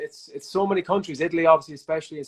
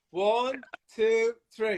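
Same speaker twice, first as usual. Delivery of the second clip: giggly late night call; 7 semitones higher, much slower than usual. Real, not acted. Counting down to hang up.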